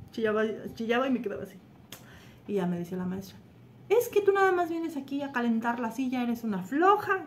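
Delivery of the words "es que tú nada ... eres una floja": higher-pitched mock scolding; grumpy teacher. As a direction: tell off a pupil, drawing out the last words. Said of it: "me tocó una maestra bien enojona". (regaño de maestra enojona, imitado)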